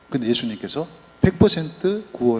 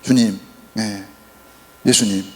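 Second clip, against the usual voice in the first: humble plea; 2 semitones lower than usual. Retold or imitated. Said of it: "이렇게 당부를 하는 거예요".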